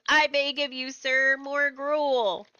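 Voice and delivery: very slow, hammed-up orphan plea; drawn-out mock begging. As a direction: stretch out the begging like a starving orphan. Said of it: "he always goes".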